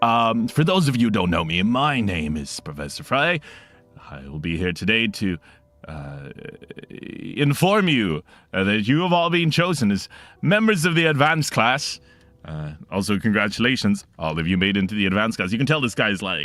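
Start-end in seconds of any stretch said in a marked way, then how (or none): 0.0-15.5 effortful, trying-hard announcing voice. Voicing Professor Fry welcoming the advanced class: Professor Fry character voice. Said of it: "he looks up and says".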